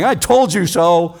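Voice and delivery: a touch of smug reproach, stress on told; lightly voiced Reuben rubbing it in; mild I-told-you-so from the older brother. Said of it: "Reuben piles on".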